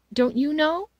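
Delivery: high, loud, surprised question. A narrator's reading. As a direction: ask in open astonishment. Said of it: "she said with surprise".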